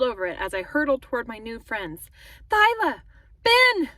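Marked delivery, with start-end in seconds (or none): 2.5-3.9 high, loud cries, falling at the end; sharp high shout; screamed names. A narrator's reading. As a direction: scream out to friends in alarm. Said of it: "I screamed".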